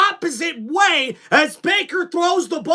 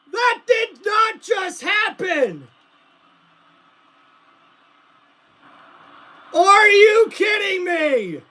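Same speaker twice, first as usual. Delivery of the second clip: shocked disbelief; 4 semitones higher, slower than usual. Real, not acted. Disbelief after interception.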